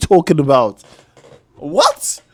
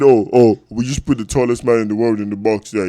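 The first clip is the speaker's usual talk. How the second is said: imitating Dan Burn; 3 semitones lower, faster than usual. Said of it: "Bringing Dan Burn said".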